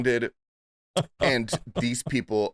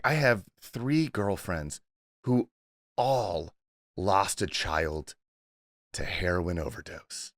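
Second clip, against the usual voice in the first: slow, lightly put-on old New Jersey aunt; mild mock New Jersey accent; 4 semitones lower, 4 dB quieter than usual. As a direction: imitate an old Jersey Italian aunt, drawn out with heavy pauses. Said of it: "I'm gonna do the accent".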